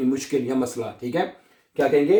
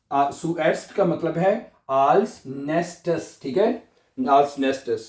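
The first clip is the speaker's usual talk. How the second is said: slow teaching pace; much slower than usual. Shown as a demonstration. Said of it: "क्या बनेगा जी?".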